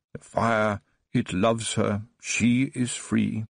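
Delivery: slow, measured chant as if reading an invisible book; trance-like recital. Acted. Old Baron recites to Tiffany in a trance, slow chant. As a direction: recite it slowly like scripture. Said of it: "as if he was reading from an invisible book".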